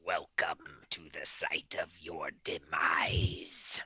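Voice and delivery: slow menacing whisper; sinister Palpatine whisper. Acted. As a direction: whisper it like a dark lord. Hooded Palpatine persona, menacing greeting.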